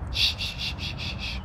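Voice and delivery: soft whispered shushing; hushing shh. Real, not acted. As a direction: hush the room, fading out. Hushing chat as wife appears.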